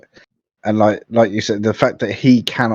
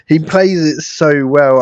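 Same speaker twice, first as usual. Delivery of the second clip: slow, louder, gushing praise; emphatic fond praise; delighted; 5 semitones higher, 4 dB louder, slower than usual. Real, not acted. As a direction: savour every word. Gushing after laughing fit.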